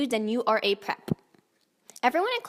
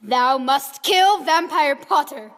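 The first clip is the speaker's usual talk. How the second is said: slow mock villain command; 5 dB louder, slower than usual. Voldemort commanding in fanfic.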